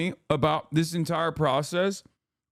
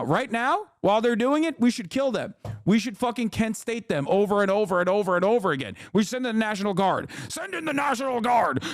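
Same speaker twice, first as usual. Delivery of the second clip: sarcastic bloodthirst; 5 semitones higher than usual. Retold or imitated. Sarcastic bloodthirsty pundit rant.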